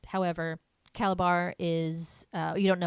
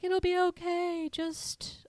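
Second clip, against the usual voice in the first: mock reassuring grandma; 12 semitones higher, slower than usual. Quoting Aggie comforting.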